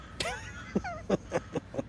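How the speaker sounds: high, breathless peal of laughter; laughing. Real, not acted. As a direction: laugh long and high, tickled. Laughs at his reputation for money talk.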